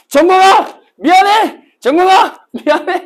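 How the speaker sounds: high, loud yelled apology; a student shouting sorry to himself during squats; shouted apology. Shown as a demonstration. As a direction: yell the name and sorry as if in punishment. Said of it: "이렇게".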